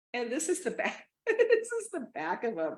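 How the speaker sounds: high, laughter-filled words; laughing while talking. Real, not acted. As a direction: crack up while showing it. Cracking up showing the trousers.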